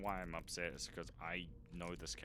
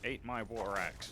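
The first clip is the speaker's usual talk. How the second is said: battle taunt; 4 semitones higher, 5 dB louder, slower than usual. Acted. Battle taunt while fighting.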